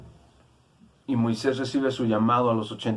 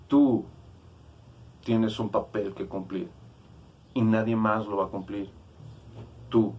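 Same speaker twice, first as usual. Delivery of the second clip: God calling. Retold or imitated. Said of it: "y diciéndole".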